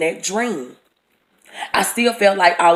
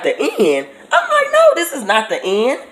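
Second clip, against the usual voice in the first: laughing, higher pitched protest; laughing disbelief; 3 semitones higher than usual. Retold or imitated.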